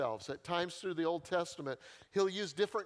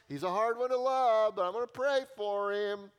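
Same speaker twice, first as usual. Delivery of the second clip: grudging pray-er; 4 semitones higher, 6 dB louder than usual. Retold or imitated. Voicing a grudging churchgoer's prayer.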